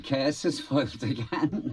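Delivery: high, hammed-up villain line; panto villain. Actor savouring a panto villain's line, high and hammy. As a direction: ham it up like a pantomime baddie. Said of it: "I like saying".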